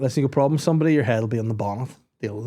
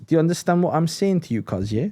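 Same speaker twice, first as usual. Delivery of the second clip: put-on controlled London street accent, dropping at end; calm Top Boy accent; 5 semitones higher than usual. Top Boy character making a point clear, calm street accent. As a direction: mimic a serious street character staying calm. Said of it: "they just get calm".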